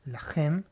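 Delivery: "La gem" with its g said as a guttural j; throaty j sound. Shown as a demonstration. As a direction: demonstrate "La gem" with a raspy j in place of hard g. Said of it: "Con sonido de J".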